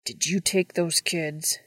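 slow, through gritted teeth. Acted. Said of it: "he asked through gritted teeth".

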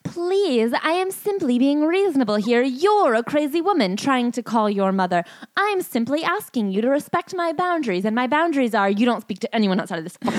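high, smug put-on reasonable voice; mocking a musician. Host mocks the husband's self-justifying plea, in a high smug voice. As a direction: sneer through his fake politeness. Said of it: "does this sound like a moment where he was remembering his manners".

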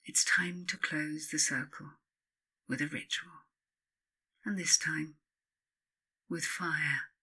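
soft, breathy ritual whisper; hushed whisper. Acted. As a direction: let the words sink to a whisper. Closing the circle with fire.

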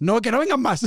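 ruego juguetón que sube de tono; pídelo como súplica fingida, con risa al final; súplica en broma. Pretend. Broma a los oyentes del podcast. (súplica en broma, subiendo la voz)

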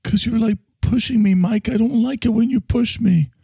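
high-pitched, hurt objection; upset complaint. Acted. Upset at being pushed by Mike.

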